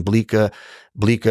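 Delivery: "Bleecker" said the New York local's way; local New York pronunciation. Real, not acted. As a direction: say "Bleecker" as BLEE-kuh, dropping the final r. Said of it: "I like how you say Bleecker".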